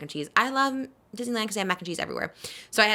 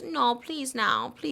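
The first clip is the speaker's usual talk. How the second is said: put-on pleading child; 5 semitones higher, 5 dB quieter, much slower than usual. Child voiced begging for candy.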